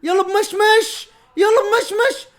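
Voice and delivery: high, loud, stretched cheer; drawn-out cheer. Real, not acted. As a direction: draw out the praise at the top of your voice. Cheering a move.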